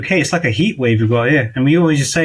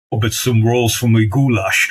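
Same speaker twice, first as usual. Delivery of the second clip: slow, lower Scottish growl of a film star; Sean Connery impression; 4 semitones lower than usual. Host imitates the actor to his guest, slow lower Scottish voice. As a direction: savour the goulash line like the famous actor. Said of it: "Imagine Sean Connery saying the word goulash".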